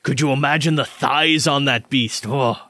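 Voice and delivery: lightly voiced gossiping craftsman; chatty armorer character. Armorer joking about cooking the birdman, lightly voiced. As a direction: confide with sly amusement. Game master voices the surgeon.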